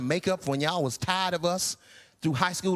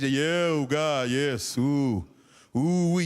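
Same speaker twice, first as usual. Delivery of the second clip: mock eager yes; 6 semitones lower, slower than usual. Audience imagined wanting kids.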